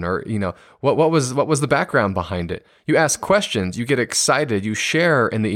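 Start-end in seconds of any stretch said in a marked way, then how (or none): 0.8-2.7 eager curiosity. Shown as a demonstration. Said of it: "a more validating response would be".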